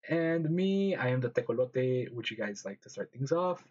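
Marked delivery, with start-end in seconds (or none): 0.1-2.1 half robot voice, stiff and even. Real, not acted. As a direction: sounds like a glitchy robot. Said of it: "why do I sound like a robot".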